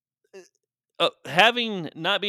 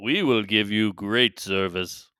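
put-on slow, measured Native American accent; 3 semitones lower, slower than usual. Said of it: "say it like a Native American".

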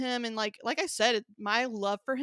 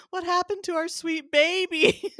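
laughing exasperation; 9 semitones higher, 8 dB louder than usual. Retold or imitated. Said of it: "we go".

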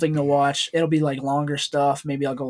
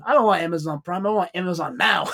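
imitated Asian accent; 3 semitones higher than usual. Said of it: "his Asian accent he puts on".

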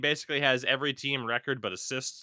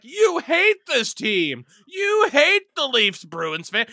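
loud, higher mock outrage at a hater; angry fan; 8 semitones higher, 11 dB louder than usual. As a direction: yell it like a furious hockey fan. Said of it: "where it's like".

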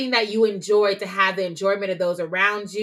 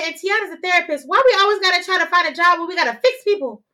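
mom's voice; 9 semitones higher, 4 dB louder than usual. Retold or imitated. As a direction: play the mom, prim and sweet. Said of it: "She said".

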